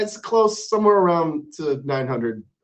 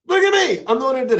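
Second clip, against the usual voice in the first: mock boast; 9 semitones higher, 3 dB louder, much faster than usual. Real, not acted. Host jokingly boasting.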